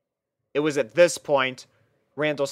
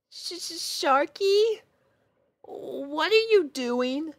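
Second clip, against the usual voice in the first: scared as the shark turns on her; wide-eyed fear; slower than usual. Acted. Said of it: "with a wide-eyed look on her face".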